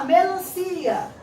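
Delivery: slow classroom dictation; teacher dictating. Shown as a demonstration. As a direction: dictate melancia slowly to the class. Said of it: "E aí vamos lá".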